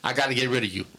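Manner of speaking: half-played New York accent, with the pitch a bit up; retold New York accent. Firing a man on set, in a mock New York accent. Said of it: "I did a terrible New York accent".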